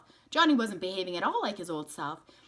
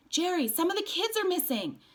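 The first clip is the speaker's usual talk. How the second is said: worried; 13 semitones higher, 3 dB louder than usual. A narrator's reading. Worried mother voiced.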